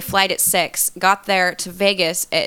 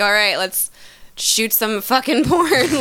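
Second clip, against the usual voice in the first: blunt, jaded order; 3 semitones higher, slower than usual. Retold or imitated. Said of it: "and then we'll get on set".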